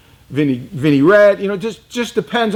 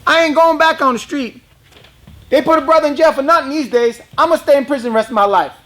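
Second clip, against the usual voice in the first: Pompano Joe voice; 9 semitones higher, faster than usual. Retold or imitated. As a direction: play Joe pitched way up. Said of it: "He said".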